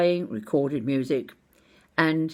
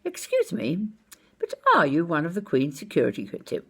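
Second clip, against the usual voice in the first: quick, eager polite enquiry, a touch higher; brisk polite question; 3 semitones higher, faster than usual. Retold or imitated. Asking the stranger in the posh suit, brisk and polite. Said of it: "So I went up to him and I said".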